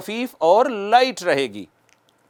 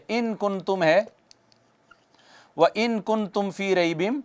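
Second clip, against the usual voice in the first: slow, soft recited verse; measured Quranic recitation; 7 dB quieter, slower than usual. Shown as a demonstration. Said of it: "جیسے لکھ لیتے ہیں".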